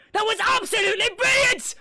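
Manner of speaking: happy announcement. Acted. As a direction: cheer them on, beaming. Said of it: "Sombra announces happily".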